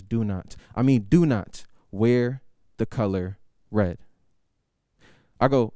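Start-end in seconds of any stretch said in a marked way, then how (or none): 0.0-4.0 serious warning. Retold or imitated. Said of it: "with a straight face".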